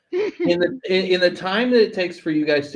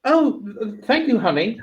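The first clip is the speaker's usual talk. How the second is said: higher, lightly Southern mother voice; a hint of sweet-talking Southern mom; 5 semitones higher than usual. Mom thanks child for the sacrifice, lightly Southern mom. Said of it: "like, a Southern mom's voice".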